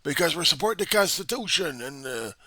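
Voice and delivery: high, loud, indignant mock proclamation; mock revolutionaries. Mimicking rioters' claim to be revolutionaries, loud and high. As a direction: shout it out as a self-righteous protester. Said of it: "it would claim that".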